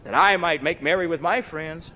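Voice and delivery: mild resentful complaint; a touch of grievance in the voice; resentful son. Retold or imitated. Elder brother complaining to father, mildly resentful. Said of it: "What an attitude".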